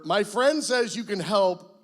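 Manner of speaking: mock prayer. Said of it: "let me tell you how the prayer went".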